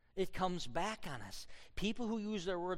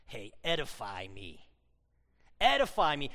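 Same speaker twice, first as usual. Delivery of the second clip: put-on Italian accent, light and playful; Italian dialect; 7 semitones lower, 5 dB louder than usual. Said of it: "we'd say it with an Italian dialect".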